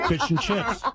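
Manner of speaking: high, laughing mock British; mock British accent. Host teasing the guest's attempt, mock British accent. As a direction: imitate a bad British accent through laughter. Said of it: "which part of that was British".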